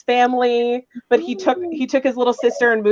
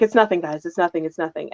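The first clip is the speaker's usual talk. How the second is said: each "nothing" quieter, trailing away; fading denial; 4 semitones lower, 5 dB quieter than usual. Retold or imitated. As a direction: brush them off, sinking lower each time. Brushing friends off while depressed.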